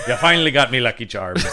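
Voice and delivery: laughing leprechaun quote; giggling through a mock leprechaun line. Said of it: "pot of gold".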